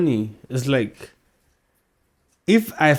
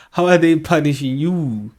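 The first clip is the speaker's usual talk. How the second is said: laughing disbelief; 5 semitones higher, 6 dB louder than usual. Real, not acted. Vlogger laughing at a politician's claim, incredulous.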